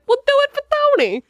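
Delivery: mocking imitation. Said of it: "I don't know why I said it like that".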